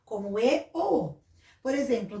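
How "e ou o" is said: full E and O sounds, not reduced to I or U; E e O com som próprio. Shown as a demonstration. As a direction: give E and O their own vowel sound. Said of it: "nós pronunciamos ela com o som dela mesmo". (E e O com o próprio som, sem virar I ou U)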